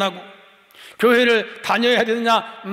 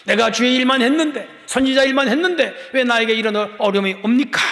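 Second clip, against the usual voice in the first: arguing with God. Acted. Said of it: "하나님께 막 따지듯이".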